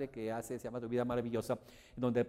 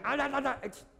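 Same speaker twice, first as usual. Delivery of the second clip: joyful singsong; 14 semitones higher, 5 dB louder than usual. Acted. Joyful outburst at good moment.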